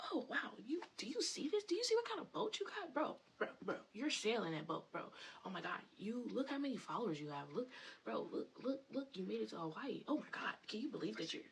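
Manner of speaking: high, excited hype-man gushing; hyping up. Retold or imitated. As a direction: pump him up like his biggest fan. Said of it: "I'm literally hyping your shit up".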